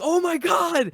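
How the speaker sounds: high, loud mock-panicked cry; retold panicked shout; freaking out. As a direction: act out someone freaking out at full volume. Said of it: "He's freaking out".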